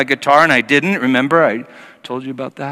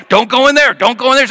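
high, loud urgent warning; high anxious warning; warning friends; 11 semitones higher, 6 dB louder, faster than usual. Retold or imitated. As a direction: stop him from going in. Others warning him.

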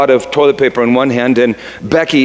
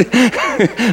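awkward chuckle; 10 semitones higher, 3 dB quieter than usual. Retold or imitated. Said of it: "I kinda chuckled".

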